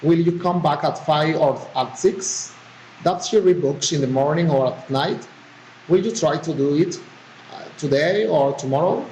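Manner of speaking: "five", "morning", "today" go up, "six", "night", "tomorrow" come down; rising then falling intonation. Shown as a demonstration. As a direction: raise the first choice before "or", drop on the second. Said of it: "the rising and falling intonation".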